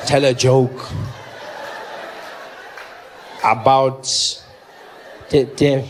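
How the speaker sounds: low, slow, halting repetition; stunned disbelief. Retold or imitated. Comedian repeating deaf fan's complaint, slow disbelief. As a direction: leave long gaps between phrases, stumbling.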